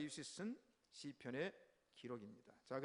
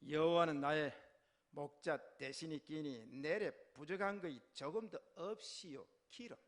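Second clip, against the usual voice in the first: North Korean Hamgyong-do recitation; emphatic Hamgyong accent from North Korea; Hamgyong dialect; 3 dB louder than usual. Shown as a demonstration. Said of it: "함경도 버전 한번 해볼까요?".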